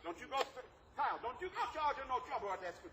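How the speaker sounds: a light, laughing take on a scolding mama; mock scolding mother. Teacher imitating a mother warning Kyle about school trouble, laughing. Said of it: "Don't they say that?".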